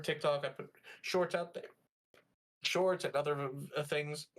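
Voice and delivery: talking through hiccups; hiccuping between words. Real, not acted. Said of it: "Excuse me, got the hiccups".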